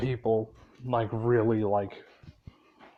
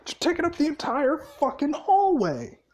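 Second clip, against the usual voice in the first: angry yell; 12 semitones higher than usual. Retold or imitated. Gray yelling at the crowd blocking the door, high angry shout. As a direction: bark it at them like they're in the way.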